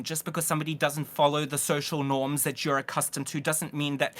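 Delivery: talking through chewing gum; rushed words round a wad of gum; mouth full. Real, not acted. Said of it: "I spoke too fast with gum in my mouth".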